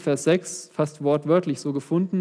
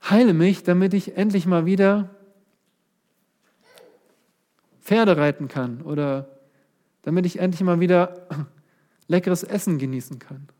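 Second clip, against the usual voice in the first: selfish demand; 2 semitones higher than usual. Acted. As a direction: make it a self-centred push for favours. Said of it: "Er sagt nicht".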